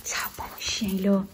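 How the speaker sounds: whispered praise for the dog; talking to a dog. Real, not acted.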